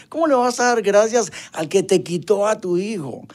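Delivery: high, incredulous question; doctor asking, stunned, how he can thank God. Retold or imitated. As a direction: voice a doctor who can't believe it. Doctor baffled by father's thanks.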